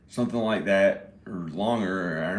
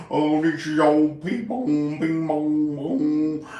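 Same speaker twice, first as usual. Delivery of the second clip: slow, higher hammed-up old redneck drawl; 5 semitones higher, 5 dB louder, slower than usual. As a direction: play the old redneck slowly and proudly. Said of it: "Like an old redneck".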